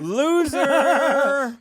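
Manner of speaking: put-on high teasing baby voice; baby talk. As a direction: coo an insult sweetly.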